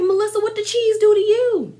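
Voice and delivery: mock exasperation. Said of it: "and I'm like".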